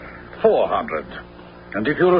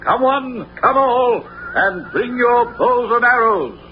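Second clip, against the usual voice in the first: proclamation; 5 semitones higher than usual. Acted. Sheriff proclaims contest to townsfolk.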